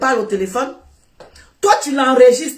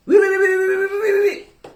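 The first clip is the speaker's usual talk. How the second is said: high, quick string of mocking ouis; a teasing run of ouis; mock yes-yes; 6 semitones higher than usual. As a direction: parrot his eager yes, mockingly. Mocking his eager agreement.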